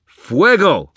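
full-force, high-pitched battle shout; shouted spell. A narrator's reading. Wizard fires at a charging ghost, shouted spell. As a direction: yell the incantation loud and drawn out. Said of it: "I shouted".

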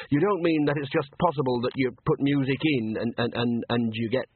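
tentative, lingering on the last words; hesitant, savouring. Acted. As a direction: stammer towards a hope, then relish it. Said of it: "Bucket hesitated, savouring the idea".

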